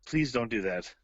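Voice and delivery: earnest, understated plea; quiet sincerity, asking them to stop; sincere plea. Real, not acted. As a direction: plead plainly and in earnest. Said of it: "that's the most sincere I've ever heard your voice".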